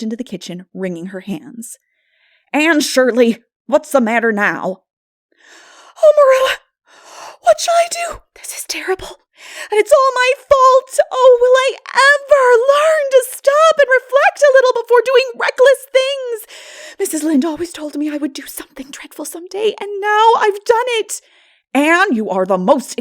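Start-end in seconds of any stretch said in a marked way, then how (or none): 2.5-4.8 loud, sharp, alarmed scolding; alarmed call. Acted. Marilla alarmed, calls out. 6.0-21.2 very high, loud, near tears with whispered breaks; despairing girl. Acted. Anne in despair.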